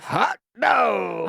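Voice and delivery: high, loud ironic cheer; mock-cheer it, dripping irony; sarcastic. Real, not acted. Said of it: "It sounded sarcastic".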